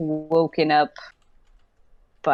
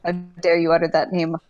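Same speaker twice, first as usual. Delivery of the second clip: offended villain; much faster than usual. Acted.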